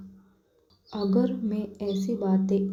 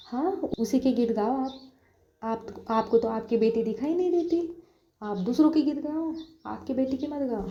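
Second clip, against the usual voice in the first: sulky complaint; 4 semitones higher than usual. Acted. Sayli complains to her mother.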